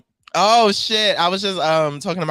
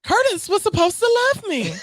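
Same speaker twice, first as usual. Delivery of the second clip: much higher dramatic quote; a singer's movie line; 3 dB louder than usual. Retold or imitated. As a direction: wail it like the movie scene. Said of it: "a singer's line".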